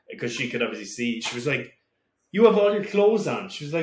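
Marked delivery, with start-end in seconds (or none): 2.3-3.5 mother's surprised voice. Retold or imitated.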